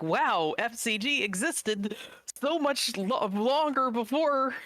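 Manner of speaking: high-pitched, stretched-out amazement; amazed reaction. Retold or imitated. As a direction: retell your astonishment, voice shooting way up. Retelling own surprise at discovery.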